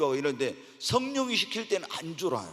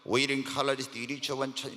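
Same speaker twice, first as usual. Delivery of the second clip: weak tongues; 3 semitones lower, 5 dB quieter than usual. Shown as a demonstration. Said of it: "내가 열심히 기도해야지 방언을".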